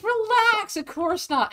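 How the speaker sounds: high, loud, mock-casual brush-off; hammed-up breezy girl voice; breezy reassurance. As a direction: toss it off lightly like it's nothing. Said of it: "And it's like".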